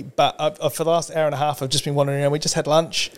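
lightly voiced, chatty over-explaining tourist; hurried, roundabout ask with no clear point; rambling Australian tourist. Australian tourist rambling at a New Yorker, mock chatty. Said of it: "I do this particularly badly".

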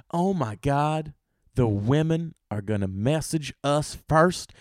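slow, mildly amazed realization; acted wonder, drawn out; awed excitement. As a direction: take in the big news slowly. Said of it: "Women were excited".

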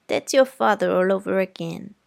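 put-on prim, firm aunt correcting a child; stern aunt. Aunt scolding Scout about Walter, prim and firm. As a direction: lecture the girl politely but firmly. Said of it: "said Aunt Alexandra".

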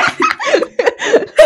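high burst of laughter; loud laugh. Real, not acted. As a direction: cracks up laughing. Friends cracking up mid-podcast.

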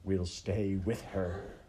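slow, drawn-out decree; menacing villain rat. Acted. Rat condemning maid and princess to darkness, slow menace. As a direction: pronounce it with deliberate menace.

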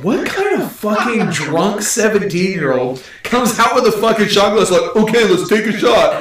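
high, loosening into laughter, mock incredulous; thrown for a loop. Stranger baffled by a teenager's shot glass, imitated high incredulity. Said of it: "This throws this guy in for a loop".

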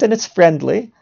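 "friendly" stressed, with a rising end. Real, not acted. Explaining that the offer is well meant, stress on "friendly". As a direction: lean on the word "friendly". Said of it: "I stress the word friendly here".

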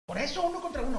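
high-pitched imitation of an outraged mom; mock a mother jumping in, voice way up; indignant mother. Other boy's mother jumping in to argue, indignant mock voice. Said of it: "Y en eso brinca mamá".

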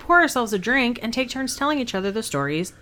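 announcer-style podcast intro; newscaster voice. Shown as a demonstration. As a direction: read it like a news anchor. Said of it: "trying my newscaster voice".

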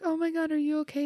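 high, fast, alarmed; mock panic. She voices the teens rushing to the fallen boy, high and fast. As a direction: rush it out as a frightened teen. Kids panic after the fall.

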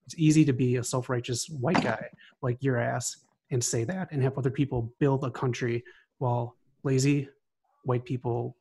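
heated, scornful callout promo; angry wrestling promo. Real, not acted. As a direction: cut a furious heel-style promo on them. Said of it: "I just wanted to cut a promo".

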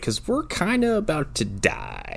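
hushed, slow whisper. Retold or imitated. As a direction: breathe it out under your voice. Hero's deadpan line to girl.

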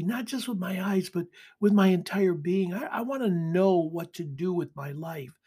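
heartfelt appeal for help; pleading prayer. Acted. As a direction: pray it as someone lost and in need. Voices a lost person's prayer.

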